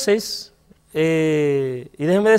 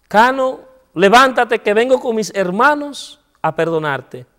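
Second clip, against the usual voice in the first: firm call; 4 semitones higher, 5 dB louder than usual. Retold or imitated. Calling to the crouching prisoner.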